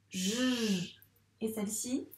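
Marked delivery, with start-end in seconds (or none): 0.1-1.0 J as a long held "zh"; sounded-out letter. Shown as a demonstration. Teacher recalling the letter's sound, J held long. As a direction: let the buzz of J run on. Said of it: "elle fait quel son déjà".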